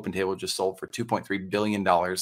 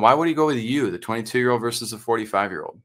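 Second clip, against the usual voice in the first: skeptical client; 3 semitones higher than usual. Retold or imitated. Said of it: "You're ever told".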